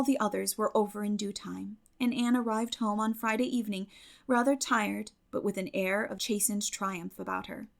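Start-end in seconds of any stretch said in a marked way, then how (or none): none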